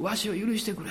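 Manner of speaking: a hushed, broken plea to his wife; quiet plea. Retold or imitated. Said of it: "こう言ったんです". (妻に許しを乞う、静かな懇願)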